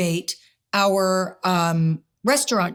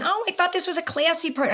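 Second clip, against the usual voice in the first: higher, mock-offended protest; offended reality star; 9 semitones higher than usual. Wife retelling a castmate's indignant line, higher and mock-offended. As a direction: act out a prim, wounded guest. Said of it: "this other girl saying".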